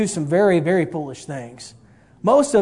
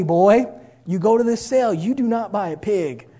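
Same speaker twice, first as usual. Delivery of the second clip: retold dad laying down the law, raised voice; louder, higher imitation of a firm father; stern fatherly order; 4 semitones higher, 3 dB louder than usual.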